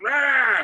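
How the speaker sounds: a sudden high, loud roar of frustration; mock frustrated yell; angry roar. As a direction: bellow it out like a fed-up bear. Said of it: "I'm like".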